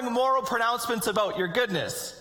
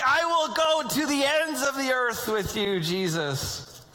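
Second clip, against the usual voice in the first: earnest vow; 4 semitones higher, slower than usual. Retold or imitated. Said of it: "It's just like".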